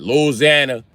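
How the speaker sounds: Louisiana squeezed into "Loozanna"; local pronunciation. Retold or imitated. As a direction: say Louisiana in three syllables. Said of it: "That's how they say it".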